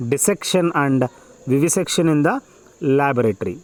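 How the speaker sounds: measured, phrase-by-phrase passage reading; dictation reading. Acted. Teacher dictating an exam passage to students, measured dictation. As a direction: read it out slowly in short chunks with pauses.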